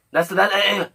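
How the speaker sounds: high, hammed-up grunts then mock announcement; mocking animal. Mocking Richard as a caged animal, hammed-up. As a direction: ham up a caged beast.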